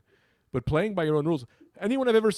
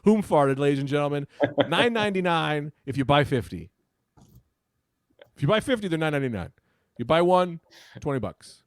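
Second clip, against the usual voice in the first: put-on British accent; 3 dB louder than usual. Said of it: "that's a British joke".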